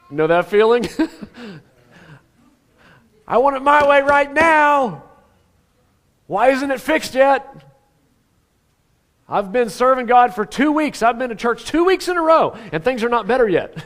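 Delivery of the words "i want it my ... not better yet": impatient believer. Retold or imitated. Voicing impatient churchgoer.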